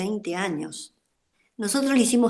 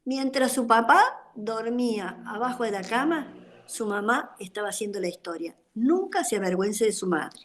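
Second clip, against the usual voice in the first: a mother tenderly reassuring her son; understated, loving retold advice; retold tender reply. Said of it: "lo miré con mucha dulzura y le dije".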